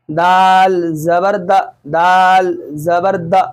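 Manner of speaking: slow spelling-out with a quick, short final "द"; short zabar. Shown as a demonstration. Teacher showing an unstretched letter, short vowel. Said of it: "दाल को नहीं खींचना है".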